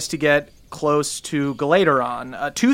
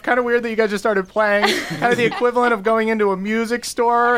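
higher, condescending musician; unimpressed, looking down on them; snooty bard voice; 5 semitones higher than usual. Acted. NPC bard's snooty reply.

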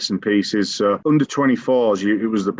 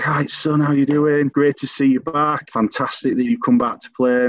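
bright, much higher mock-cheery greeting; really cheery; 6 semitones higher than usual. Manager greeting his returning goalkeeper, retold with high cheeriness. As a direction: play the beaming gaffer welcoming his keeper back. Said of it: "like, really cheery".

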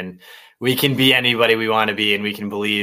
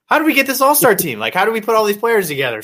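giddy fan excitement; 9 semitones higher, 3 dB louder than usual. Retold or imitated. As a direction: pitch jumps higher, a laugh breaking through. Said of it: "I just see him like".

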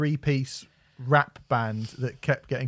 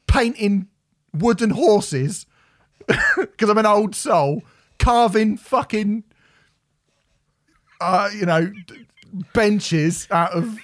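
mock regretful old soul; 4 semitones higher, 3 dB louder than usual. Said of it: "you're gonna go".

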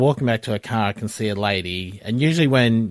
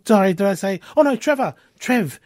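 much higher, giggling, tumbling apologies; flustered apology; 8 semitones higher than usual. Retold or imitated. Wife apologises to Trev after calling him Kev, giggling. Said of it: "was crying and laughing".

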